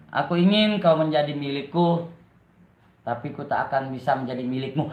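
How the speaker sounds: low, subdued poem reading; poetry recital. Shown as a demonstration. Streamer reads a love poem to live viewers, subdued recital. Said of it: "gue mau baca puisi".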